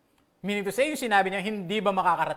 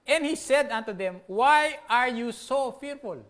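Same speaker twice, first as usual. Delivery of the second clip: slow, loud, higher stressed verse; emphatic scripture; 5 semitones higher, 5 dB louder, slower than usual. Shown as a demonstration. Preacher repeating Jesus' rebuke to the congregation, emphatic. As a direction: press the question home. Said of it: "Kasi sabi niya".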